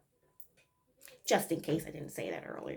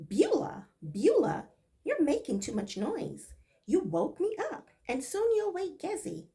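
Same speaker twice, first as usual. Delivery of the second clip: higher, louder angry scolding; irate yell; 9 semitones higher, 6 dB louder than usual. Acted. Corinne scolding the maid for waking her, yelling. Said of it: "an irate Corinne yelled".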